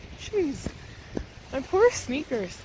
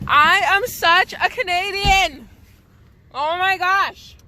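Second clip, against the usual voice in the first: exasperated self-mockery; 8 semitones higher, 7 dB louder, slower than usual. Real, not acted. Laughing at herself in snow.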